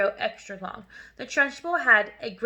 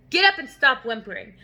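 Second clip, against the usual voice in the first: barked; 5 dB louder than usual. Acted. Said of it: "the Trunchbull barked".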